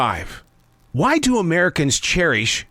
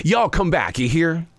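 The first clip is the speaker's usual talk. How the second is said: folksy Southern send-off; Southern US accent. Shown as a demonstration. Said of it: "I know what the Southern accent is".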